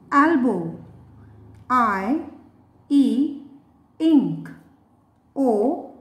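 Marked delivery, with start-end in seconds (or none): 2.9-3.4 "e" said ih, as in ink; short I sound. Shown as a demonstration. Teacher revises short vowels with learners, "e" said ih. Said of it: "The short sound of I".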